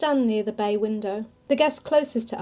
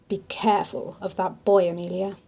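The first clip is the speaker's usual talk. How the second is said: whispered low so he can't hear; hushed warning; 3 semitones lower than usual. Acted. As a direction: breathe the warning under your breath. Warning about the nearby man.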